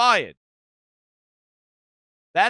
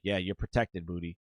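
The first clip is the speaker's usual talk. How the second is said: low, very soft mock HR voice; subdued concession; 14 semitones lower, 11 dB quieter than usual. HR tells Booty he's protected, subdued concession. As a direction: quietly back down, low and hushed. HR placating employee, retold.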